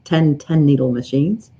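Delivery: ordinary talk, nothing marked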